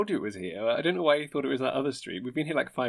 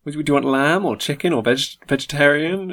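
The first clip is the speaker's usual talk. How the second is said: waiter role; 2 semitones higher, 3 dB louder than usual. Acted. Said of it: "And I will play him in this".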